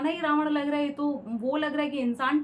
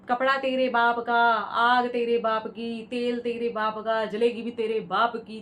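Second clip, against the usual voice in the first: mockingly declaiming the movie line, louder; mock film dialogue; 3 dB louder than usual. Reviewer quoting the film's tacky Hanuman dialogue, mocking. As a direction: ham up a tacky filmy dialogue. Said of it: "इतने बढ़िया छपरी dialogue लिख दिए".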